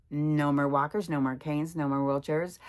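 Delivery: proud and loud about her recovery; triumphant declaration. Real, not acted. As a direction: declare it like a victory. Triumphant repeat of recovery list.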